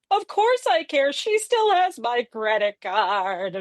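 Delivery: undercut the sweetness dryly; lightly voiced grumpy father; sarcastic dad.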